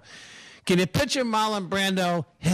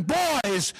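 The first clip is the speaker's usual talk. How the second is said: mock angry dad; 5 semitones higher, slower than usual. Dad catches boys drinking.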